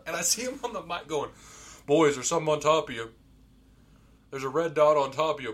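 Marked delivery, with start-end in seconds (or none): 1.8-5.5 loud retold call to teammates; urgent warning. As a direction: call out danger over the mic. Retold warning over the mic.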